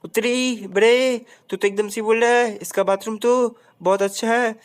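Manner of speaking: lightly voiced smug sidekick. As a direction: scold him like a smug friend. Answering character voice.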